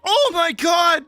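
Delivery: high squeaky laughing words; laughing while talking. Real, not acted. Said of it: "she starts laughing".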